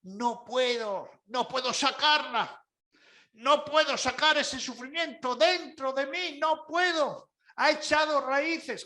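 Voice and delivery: rising, building plaintive voice; mild mock despair; imitating a complainer. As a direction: whine that you just can't. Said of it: "la gente mira lo que nos dice".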